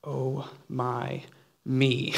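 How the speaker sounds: slow, soft sigh of exasperation; a weary aside under the breath; under his breath. Acted. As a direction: mutter it slowly to yourself. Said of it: "Jesus says under his breath".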